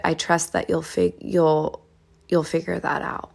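soft, unhurried reassurance; gentle. Shown as a demonstration. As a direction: say it gently, easing off softly at the end. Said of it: "you say this with gentleness".

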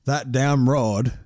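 slow, drawn-out movie-character line; Pet Sematary quote. Retold or imitated. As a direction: drag the words out like the old neighbour in the film. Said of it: "huge quotes around it".

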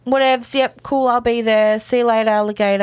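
so blasé, tossing off slang; acting super cool. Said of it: "Amy's acting all super cool".

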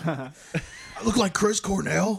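loud, high, slow incredulous yell; retold yelling. Too high to notice he yells at lady, yelling. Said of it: "Turns out I was yelling".

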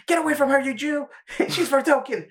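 high, squeaky cartoon kid yelling; Cartman impression. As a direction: squeal it like a bratty cartoon boy. Cartman voiced in retelling.

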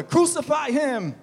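high, loud, drawn-out cry. A narrator's reading. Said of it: "they shout back louder".

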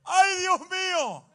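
high, loud, slow yelp of pain; showing the congregation how you yell after a bump, loud mock yelp; mock pain shout. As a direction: cry out like you hit your nail. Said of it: "¿cómo usted grita?".

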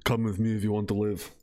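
low-pitched movie-line delivery; Kyle Reese impression. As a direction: drop the pitch for the action-film quote. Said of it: "or is it Kyle Reese".

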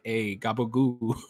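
slow, drawn-out mock mobster; Tony Soprano. Imitating the fake Mario voice, mock mobster. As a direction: put on a joking fake mobster voice. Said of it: "Like Tony Soprano voice thing".

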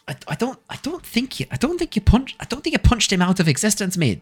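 other dwarf. Acted. Dwarf telling his drunk mate off, high-pitched character voice. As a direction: play a dwarf high above your own pitch. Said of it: "The other dwarf goes".

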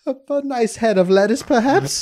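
high squishy wobbly worm voice; squeaky little worm. Pretend. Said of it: "why was that the worm's voice?".

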